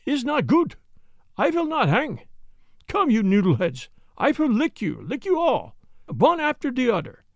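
put-on high, frantic German-accented protest; desperate defiance. Jan defies the men in high frantic German accent. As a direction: refuse wildly, near panic. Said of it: "he cried, recoiling".

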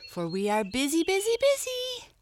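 loud, climbing to a very high squeal; merry cry. A narrator's reading. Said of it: "cried the Little Breezes".

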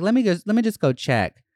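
condescending service voice. Retold or imitated. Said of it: "her condescending customer service voice".

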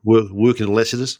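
put-on light soap-opera Aussie accent; Australian accent. Showing off a go-to accent, mock Australian. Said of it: "What's your go-to Australian accent?".

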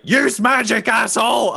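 high, urgent mock yell; acted yell. Duncan yells to Maka, acted urgent yell. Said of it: "Duncan yells to Maka".

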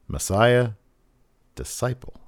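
calm, measured pronouncement. Retold or imitated. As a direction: say it evenly, pausing between the two words. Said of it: "Murphy very calmly says".

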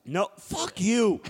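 drawn-out, indignant refusal. Real, not acted. Host refusing co-host's quiz request, indignant.

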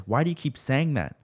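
high, loud desperate demand; screaming demand. A narrator's reading. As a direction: scream it at him in disbelief. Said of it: "She screamed and demanded".

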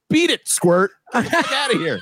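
high, put-on tough-guy brush-off; hammed-up New York tough telling off a pest; mock tough guy. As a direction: shoo him off like a street tough.

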